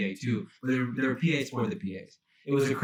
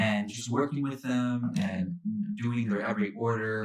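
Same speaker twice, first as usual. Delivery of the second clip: jaded. Pretend. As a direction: drag out the praise as if worn down by it. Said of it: "I love how jaded we sounded".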